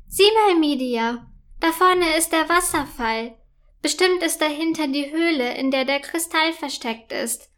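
thrilled to spot the waterfall; excited call. Acted. Princess calls to her horse at the waterfall, excited. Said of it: "ruft Prinzessin Felia aufgeregt".

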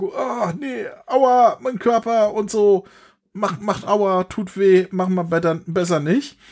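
whiny pained voice. Retold or imitated. Goku hurting after back slap.

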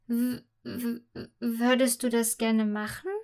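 put-on girl asking her friend hesitantly; unsure stammer. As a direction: stumble in disbelief. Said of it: "fragt sie unsicher".

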